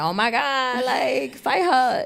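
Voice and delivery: high-pitched, playful egging-on; mock outburst. Podcaster riffing at home in pajamas, mock outburst. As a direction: exclaim it high, hamming it up.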